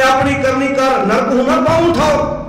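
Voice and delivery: drawn-out chant of a sacred line; slow recited verse. Retold or imitated. Preacher quoting Bhai Gurdas to the congregation, slow chant. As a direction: recite it slowly, each word held. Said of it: "ਐਵੇਂ ਨਹੀਂ ਕਿਹਾ ਭਾਈ ਗੁਰਦਾਸ ਨੇ".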